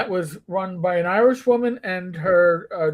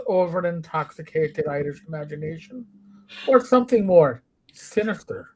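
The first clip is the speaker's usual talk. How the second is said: answering machine message. Retold or imitated. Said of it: "I'll do my Saint Patrick's Day".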